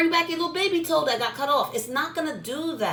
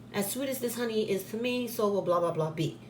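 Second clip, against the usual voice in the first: softly recited incantation; 4 dB quieter than usual. Shown as a demonstration. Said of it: "demonstrating a petition recital".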